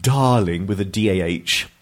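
slow, drawn-out bad British accent; awful British accent. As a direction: read the exaggerated British spelling out slowly. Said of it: "that was an awful British accent".

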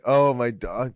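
brief burst of a premier's voice; Doug Ford. Acted. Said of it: "you did Doug Ford for us".

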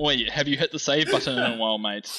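condescending Aussie Clippy. Pretend. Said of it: "the tones of, like, condescension".

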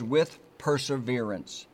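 "with perseverance" said slowly and deliberately; stressing two words. Shown as a demonstration. Preacher telling the congregation which words to mark. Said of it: "two words".

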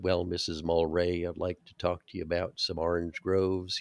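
slow, each word ground out, Jack Nicholson style; Jack Nicholson impression. Guest imitating Jack Nicholson in a slow, ground-out drawl. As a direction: separate every syllable and grind the words out like Jack Nicholson. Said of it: "like Jack Nicholson".

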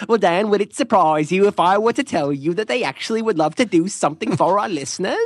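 high, far infomercial pitch voice. Acted. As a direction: sell it like a late-night TV ad. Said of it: "You sound like an, an infomercial".

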